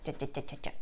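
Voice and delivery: low, soft "cha cha cha"; quick scribble sounds. Shown as a demonstration. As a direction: mimic fast choppy scribbling. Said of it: "I don't want you to just color like this".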